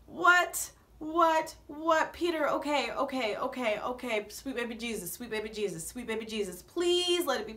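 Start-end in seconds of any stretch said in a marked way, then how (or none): 0.1-2.1 higher, louder disbelieving what; can't believe the name called; repeated stunned what; shocked what. Retold or imitated. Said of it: "I'm like". 4.3-6.6 softer, muttered prayer; anxious whispered prayer; nervous prayer. Real, not acted. Praying nervously.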